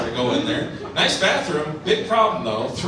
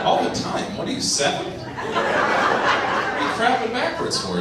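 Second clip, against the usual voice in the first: incredulous mocking; 8 semitones higher, slower than usual. Mocking the heckler.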